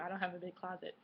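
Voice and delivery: a burp breaking into the words. Real, not acted. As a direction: talk through a burp. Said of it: "Excuse me, I'm burping".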